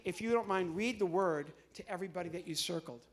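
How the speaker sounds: usual speaking voice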